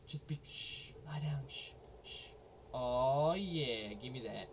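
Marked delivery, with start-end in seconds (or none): 0.1-2.3 hushed unvoiced whisper. Real, not acted. Gamer hushing an enemy while sneaking, whispering. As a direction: hush them down quietly.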